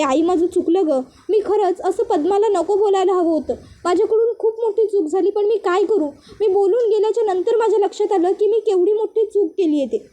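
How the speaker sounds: a touch of tearful regret; mild weepy confession to mother; crying. Acted. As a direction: daughter sorry for her words, lightly tearful. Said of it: "ऊर्जा रडत असते".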